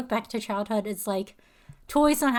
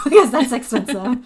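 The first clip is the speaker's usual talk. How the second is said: laughing through the words; 9 dB louder than usual. Real, not acted. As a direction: chuckle as you say it. Laughs mid-line.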